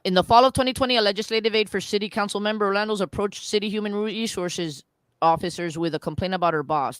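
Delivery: fast read-aloud of an article; quick reading. Real, not acted. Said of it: "try to read this quickly".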